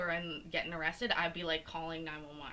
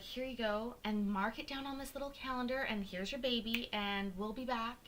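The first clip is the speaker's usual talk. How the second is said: higher-pitched imitation of a nurse; mock a nurse rattling off routine instructions; 5 semitones higher than usual. Mimics nurses' offhand instructions.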